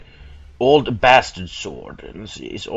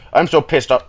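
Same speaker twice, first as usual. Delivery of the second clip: loud, higher-pitched angry venting; pissed off; 6 semitones higher, 8 dB louder than usual. Real, not acted. Player fuming at being tricked, pissed off. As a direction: vent it with real heat. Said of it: "I'm fucking pissed off right now".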